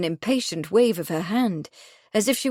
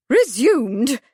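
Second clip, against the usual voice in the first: horrified echo; 5 semitones higher, 6 dB louder than usual. A narrator's reading.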